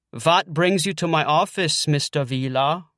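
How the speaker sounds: put-on a light, joking German accent as a therapist; faintly German-accented doctor question; mock German accent. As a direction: play a hint of a German shrink. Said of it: "I say in a German accent".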